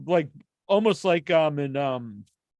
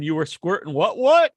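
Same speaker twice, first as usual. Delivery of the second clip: quoting incredulous question; 4 dB louder than usual. Retold or imitated. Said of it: "Jonathan Jackson said".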